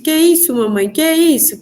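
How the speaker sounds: put-on high, punchy child's question, lightly done; insistent little child. Small daughter wanting to know from mother, light child imitation. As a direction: lightly mimic a toddler asking repeatedly.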